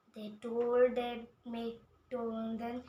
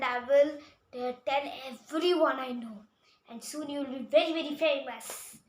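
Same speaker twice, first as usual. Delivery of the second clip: excited; 6 dB louder than usual. Acted. Owner praises the doctor loudly.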